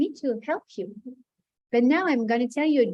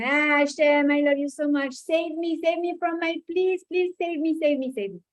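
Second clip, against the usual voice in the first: put-on Maurice Benguigui accent; 3 semitones higher than usual. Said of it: "the accent of Maurice Benguigui".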